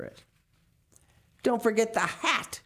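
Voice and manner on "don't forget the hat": higher, louder sharp order; stern monster mother barking at the boys; snapped. Acted. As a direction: bite off the command. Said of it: "she snapped".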